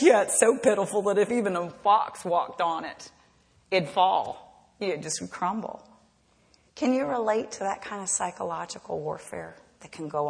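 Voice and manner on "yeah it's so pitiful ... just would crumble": a lightly voiced sneering enemy, fading at the end; Tobiah's mockery. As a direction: ridicule the wall. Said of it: "And he goes".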